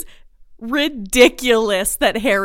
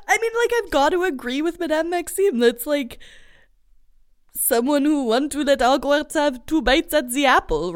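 put-on faint French accent; 4 semitones higher than usual. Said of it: "sorry for my French accent".

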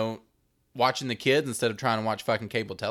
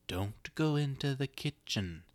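whisper; 3 semitones higher, 6 dB quieter than usual. Acted. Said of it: "She whispers to her child".

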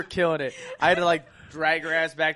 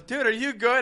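concerned check; 5 semitones higher, 5 dB louder than usual. Retold or imitated. Friend checking on fallen teller.

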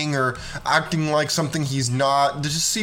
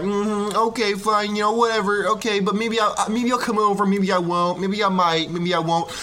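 a touch higher, mock teasing girl; indifferent girl; 5 semitones higher than usual. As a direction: play coy and noncommittal. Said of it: "She'd be like".

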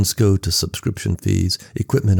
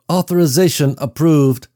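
higher, louder machine announcement; computer voice intoning; 7 semitones higher, 4 dB louder than usual. Acted. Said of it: "the computer voice intoned".

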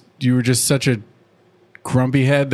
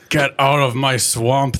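Shrek impression; slower than usual. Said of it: "That's my Shrek impression".

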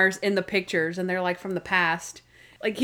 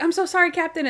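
imitated apology; 8 semitones higher, faster than usual. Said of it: "It's like".

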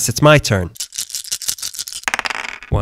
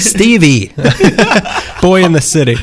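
laughing; 4 semitones higher than usual. Real, not acted. Laughing while voicing quote.

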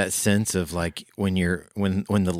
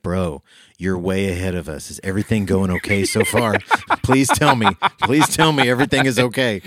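pleading, laughing; 2 semitones higher, 5 dB louder than usual. Retold or imitated. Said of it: "And I was like".

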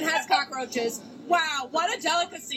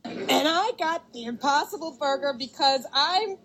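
creaky fried voice; vocal fry. Acted. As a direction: let it crackle into fry. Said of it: "More, more vocal fry".

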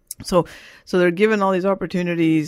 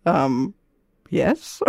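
laughing sheepish yes; 3 semitones lower than usual. Retold or imitated. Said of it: "I'm like".

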